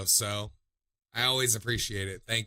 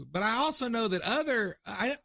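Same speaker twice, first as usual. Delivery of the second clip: higher-pitched attempt at a British accent; imitated British accent; 9 semitones higher than usual. Retelling a favorite TikTok, higher mock British accent. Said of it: "like, back to British".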